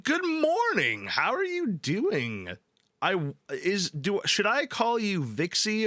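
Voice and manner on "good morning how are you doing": very high, slow, drawn-out hello; high sing-song greeting. Real, not acted.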